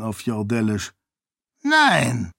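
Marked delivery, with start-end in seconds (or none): 1.6-2.3 lightly voiced monk. A narrator's reading. Dilaf answers Hyraten.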